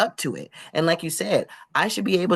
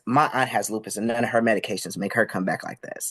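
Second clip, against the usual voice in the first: imitated deadpan; 4 semitones lower than usual. Lady dismissing a job applicant's medication explanation, imitated deadpan. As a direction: retell it in a dead-serious, lowered voice. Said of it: "looks me dead in the face".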